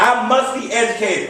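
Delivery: rallying call to repeat. Shown as a demonstration. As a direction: lead the chant with excitement. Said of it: "I don't feel you yet".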